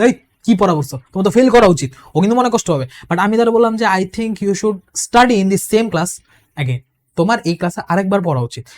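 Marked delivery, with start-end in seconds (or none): 0.0-1.9 half-serious blunt telling-off; blunt scolding. Shown as a demonstration. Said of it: "আমি যদি সরাসরি বলি". 3.9-8.7 slow, gentle, careful wording; gentle and tactful. Shown as a demonstration. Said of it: "একটু সুন্দরভাবে তার".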